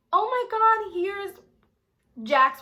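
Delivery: high, loud gushing mom; excited introduction. Retold or imitated. Mom showing off son's new girlfriend, excited. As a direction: gush to the whole family.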